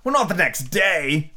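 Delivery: 아주 느리고 생각에 잠긴 말투; 곱씹듯 천천히 되풀이해; slow thoughtful. A narrator's reading. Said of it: "the knight repeated as before".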